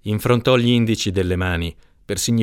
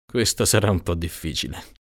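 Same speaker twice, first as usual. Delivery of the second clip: wistful smile; 3 semitones lower, 3 dB quieter than usual. Acted. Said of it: "sorrise mestamente".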